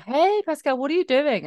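put-on high-pitched, lightly Spanish-accented greeting; hint of Spanish accent. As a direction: imitate a Spanish friend, nearly slipping into the accent. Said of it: "you almost went into it".

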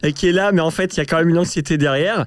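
high, bright, faux-friendly tone; falsely friendly voice. Shown as a demonstration. Host demonstrating his high, falsely friendly social voice. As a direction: sound nice with anxiety underneath. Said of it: "faussement sympa".

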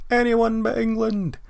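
high, loud chant of a football fan; shouting. Retold or imitated. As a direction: bellow it like a rowdy fan on the terraces. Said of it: "while shouting".

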